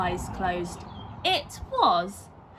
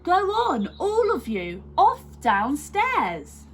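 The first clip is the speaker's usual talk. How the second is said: louder, slowing to a drawn-out order; shooing; 8 semitones higher, 5 dB louder than usual. A narrator's reading. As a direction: shoo the children out firmly. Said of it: "said Missus Large".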